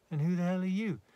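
loud, high scornful challenge; defiant. A narrator's reading. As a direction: challenge his right to give orders. Quarrel between lovers.

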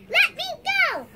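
high, loud desperate yell; shouting. Acted. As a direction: scream to be let go. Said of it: "shouted the bunny".

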